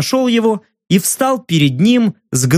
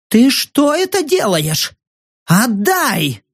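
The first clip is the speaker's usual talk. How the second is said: higher, grabbing-back alarm; alarmed protest; 7 semitones higher, slower than usual. Acted. Journalist panicking over bag.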